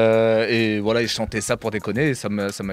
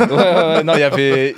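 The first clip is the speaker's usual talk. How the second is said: laughing; 6 dB louder than usual. Real, not acted. Impressed host knows his history.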